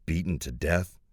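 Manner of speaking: quiet disbelieving question; half to himself, stunned. Acted. Narrator echoes the news, stunned.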